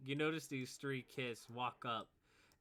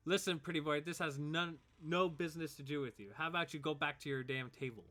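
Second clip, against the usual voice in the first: somewhat raised bully voice; dismissive bully; 3 semitones higher, 3 dB louder than usual. Acted. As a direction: warn off an intruder with scorn. Bully tells player to back off.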